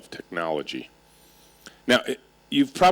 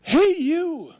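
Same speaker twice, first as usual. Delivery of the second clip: call back; 4 dB louder than usual. Retold or imitated. The room calling back.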